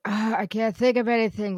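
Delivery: mock creative despair; retold frustration. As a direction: act out being stuck for ideas. Retelling her creative block.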